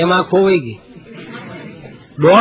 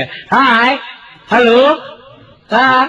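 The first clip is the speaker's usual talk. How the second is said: high, mock flirty greeting; cheeky greeting; 6 semitones higher, much slower than usual.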